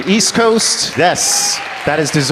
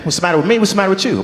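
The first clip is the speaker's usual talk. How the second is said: hammed-up Black American accent, starting to slip; put-on Black accent; 5 semitones higher, much faster than usual. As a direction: play both parts in a put-on Black accent. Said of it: "It starts off strong".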